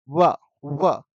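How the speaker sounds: "व" with both lips drawing together at the sides; isolated "व", rounded lips lightly meeting; lip-touching va. Shown as a demonstration. Teacher has students feel their lips on व, demonstrated lip-touching sound. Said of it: "दोनों होंठ जो है ना side से चिपक रहे हैं".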